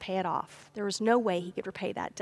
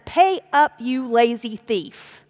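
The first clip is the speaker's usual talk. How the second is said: angry demand; 8 dB louder, slower than usual. Retold or imitated. Forgiven servant throttling the man who owes him, loud and angry. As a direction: choke the words out at him.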